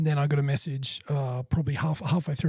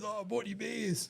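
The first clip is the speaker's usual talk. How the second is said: soft higher imitation; 6 semitones higher, 9 dB quieter than usual. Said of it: "and he goes".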